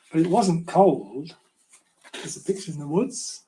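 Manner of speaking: put-on gentle storybook reading for children; story narration. A narrator's reading. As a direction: read it like a bedtime story to little ones. Author reads his children's book.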